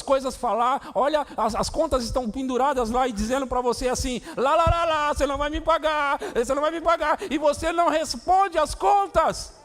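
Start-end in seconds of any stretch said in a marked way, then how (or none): 4.4-7.2 mocking singsong, high and loud; a sing-song jeer from the unpaid bills; taunting bills. Bills taunting voiced by preacher. 7.3-9.5 high, loud, shouting sermon; impassioned shouted sermon; fiery preaching. Acted. Preaching at full force.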